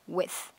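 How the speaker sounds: WITH ending in clear th; final th sound. Shown as a demonstration. Teacher models ending sound, th on WITH. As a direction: say "with", sounding the closing th. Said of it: "chúng ta có âm th".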